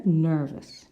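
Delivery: "Nervous" with an ER vowel, not AIR; different vowel. Shown as a demonstration. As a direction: say "Nervous" clearly with ER in the first syllable. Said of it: "Can you hear?".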